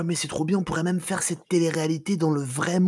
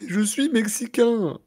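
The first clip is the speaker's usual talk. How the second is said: higher, slow, hammed-up Mexican accent; mock Mexican accent; 8 semitones higher, slower than usual. Player declares himself Mexican, higher slow put-on Mexican accent. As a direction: play the proud Mexican, drawn out. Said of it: "ça se voit à ta, à ton accent".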